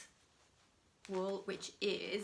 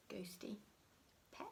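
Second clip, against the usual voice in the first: whisper; 13 dB quieter than usual. Acted. Naming the little ghost pet.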